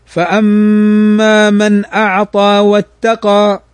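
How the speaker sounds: slow chanted tajweed recitation; measured Quranic chant. Shown as a demonstration. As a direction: recite it slowly with tajweed rules.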